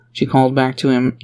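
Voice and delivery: ordinary delivery, nothing marked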